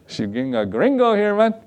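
hammed-up Hispanic-accented teasing; caricatured Hispanic churchgoer accent; mock Hispanic accent. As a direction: put on a Hispanic accent, joking. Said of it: "they don't talk like that".

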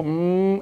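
high sustained hum of an accelerating car; revving noise made by mouth; imitated engine revving. Imitating car engine as foot floors it.

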